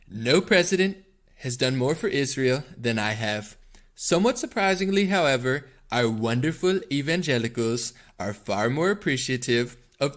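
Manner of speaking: put-on presidential impersonation with swooping pitch; Donald Trump. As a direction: read it as a Trumpy statement, phrase by phrase. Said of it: "I'm gonna do it in my Trump voice".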